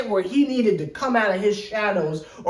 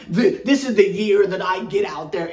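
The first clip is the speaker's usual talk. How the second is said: lightly attempted Australian accent; Ben Simmons, bad Australian accent. Quoting a player to viewers, poor Australian accent. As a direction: have a shaky go at an Australian accent. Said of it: "don't know how to do a proper Ben Simmons".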